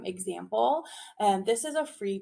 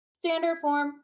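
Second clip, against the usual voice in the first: class echo; 7 semitones higher, 4 dB louder than usual. Shown as a demonstration. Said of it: "you respond".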